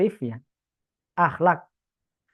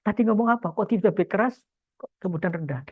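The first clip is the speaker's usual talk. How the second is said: curious listener; 4 semitones higher than usual. Retold or imitated.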